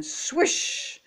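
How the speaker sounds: long airy swish, softly hissed; whooshing swish. A narrator's reading. Narrator voices Froggy's second miss, airy whoosh. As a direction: make the swing whoosh past the ball. Imitating the bat's second swing.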